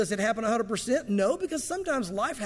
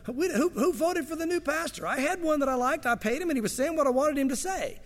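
higher, whiny mock complaint; mock churchgoer; 5 semitones higher than usual. Preacher mocking members who buy a pastor, whiny. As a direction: lampoon a spoiled church member.

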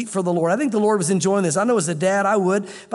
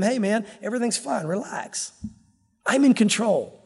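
easygoing, letting the voice drop on "Relax"; laid-back, unworried Lord; relaxed reassurance. Acted. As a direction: tell them casually that all is well. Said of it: "the Lord is relaxing".

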